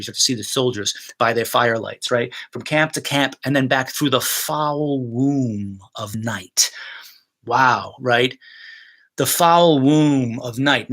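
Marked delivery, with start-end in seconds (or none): 2.5-6.7 slow, sustained delivery ending in a whisper; slow dramatic Shakespeare reading; verse reading. Shown as a demonstration. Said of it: "teacher performs the verse". 9.2-10.9 slow, lingering, stress on foul; drawn out. Shown as a demonstration. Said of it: "to hear that image".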